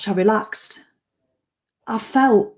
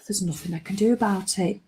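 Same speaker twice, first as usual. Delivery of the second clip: resigned calm; 7 dB quieter than usual. Retold or imitated. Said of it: "I could feel my whole self".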